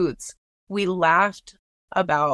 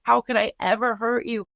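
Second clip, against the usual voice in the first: higher, mildly mocking sugary voice; eerie flattery; 6 semitones higher than usual. Ex flattering her at Christmas, a touch of eerie sugar. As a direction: imitate his creepy tenderness lightly.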